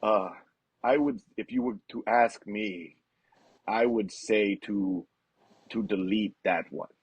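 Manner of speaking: a lightly voiced deliberate father; imitating Lars's dad. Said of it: "his dad goes".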